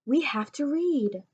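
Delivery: firm slow reminder to a friend; insistent, slow and firm. Acted. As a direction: press each word to make him read. Shushing friend to read.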